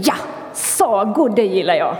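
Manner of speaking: plain, content voice of a fan of fairy tales; happy listener's thought. Retold or imitated. Church listener who loves fairy tales, contentedly. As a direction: say it as a pleased listener. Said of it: "en del tänker".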